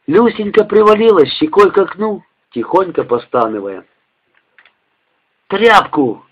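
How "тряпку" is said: barked order. Acted. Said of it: "рявкнул Женька".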